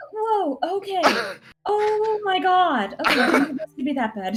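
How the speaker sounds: startled placating. Acted.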